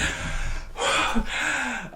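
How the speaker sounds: out-of-breath huffing; imitated panting. Acting the brothers running in, panting. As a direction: pant as if just run in. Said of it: "they're panting".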